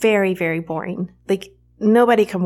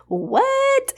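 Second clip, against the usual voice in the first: high, squeaky disbelief; a real jolt of amazement, pitched way up; stunned what. Real, not acted. Rereading her old birth story, shocked high-pitched what. Reacting to her own written line.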